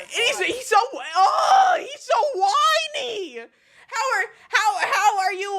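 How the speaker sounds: squealing with laughter; laughing while talking; high-pitched laughing disbelief. Real, not acted. Streamer mocks whiny man.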